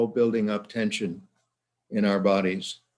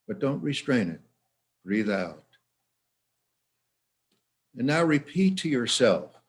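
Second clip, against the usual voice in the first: measured instructions with long pauses; guided relaxation. Shown as a demonstration. Leads a relaxation exercise.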